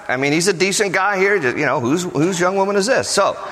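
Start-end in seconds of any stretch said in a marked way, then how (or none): 1.8-3.1 casual, offhand question; matter of fact. Acted. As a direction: ask it simply, like a decent guy. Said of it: "kinda matter of fact".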